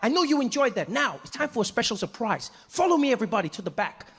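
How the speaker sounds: high, gleeful tour-host voice; rally the crowd for a surprise; hammed-up delighted host; host having a blast. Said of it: "he's having a blast".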